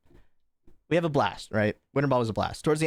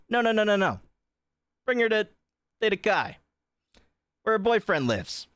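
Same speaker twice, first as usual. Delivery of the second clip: urgent friends; 10 semitones higher than usual. Retold or imitated. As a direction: cut in like panicked friends on the phone. Friends on phone insisting urgently.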